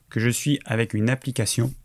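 small burp slipping into the words; speaking through a little burp; talking while burping. Real, not acted. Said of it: "Pardon pour le rototo".

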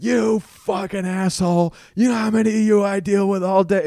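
high, loud enraged yelling; screaming down the phone at the prank caller; furious shout. Retold or imitated. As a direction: blow up at the caller, fed up with him. Customer service rep loses temper.

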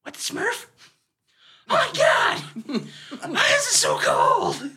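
high shocked wake-up cry; hammed-up waking in freezing cold; mock shock. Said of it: "he goes".

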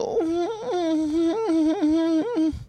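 long, high fake wail; hammed-up drawn-out crybaby whimper; mock sobbing. Carny always crying over meat, mock sobbing. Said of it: "they're always crying".

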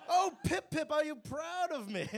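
put-on posh little kid. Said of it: "the little kid".

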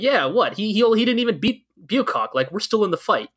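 imitating scoffing, defiant civilians; defiant populace. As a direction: lightly act out an unconvinced rebel. Voicing a defiant, rebelling populace.

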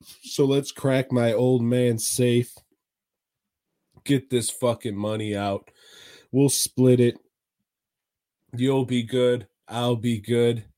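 low mock-British crook; mock British accent. Wife proposing to crack the safe, mock British accent. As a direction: pitch it down into a put-on British accent. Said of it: "I can't do a British accent".

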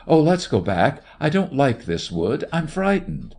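high, frightened plea. A narrator's reading. Frightened woman pleads to go back.

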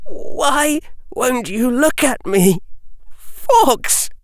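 high, pleading, Fawkes rising to a cry; shaking desperate call. A narrator's reading. Harry crying out to Fawkes, shaking and desperate. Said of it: "in a shaking voice".

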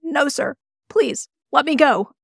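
high-pitched frightened no; a terrified man's plea; trembling. A narrator's reading. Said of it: "he trembled".

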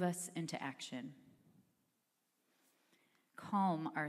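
unhurried prayer with long pauses. Real, not acted. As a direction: pray aloud, pausing after each phrase. Leads the congregation in prayer.

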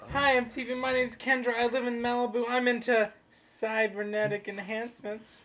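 put-on slow, high Valley Girl voice; Valley Girl accent. Shown as a demonstration. Repeats the Valley Girl profile.

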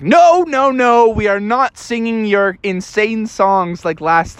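high, slow protest. Acted. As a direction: refuse in a high, drawn-out whine. Bubby refuses bear's songs.

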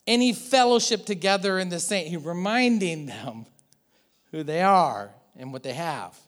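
measured, earnest reading of Paul; scripture reading. Acted. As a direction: read the verses like a letter.

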